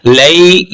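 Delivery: "लई" read softly as a leen diphthong; soft leen sound. Shown as a demonstration. Teacher showing students the soft leen sound, slowly. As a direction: glide gently through "लई". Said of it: "लीन बनना है".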